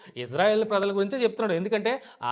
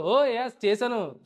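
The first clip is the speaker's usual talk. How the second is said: cocky assurance; 3 semitones higher, slower than usual. Retold or imitated. Saul telling Samuel he finished the task, cocky. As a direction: brag lightly that the job is done. Saul confidently claims job done.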